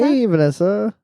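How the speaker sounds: bright high greeting; cheery hello. Real, not acted. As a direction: call out a happy hey. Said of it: "I'm gonna say hi".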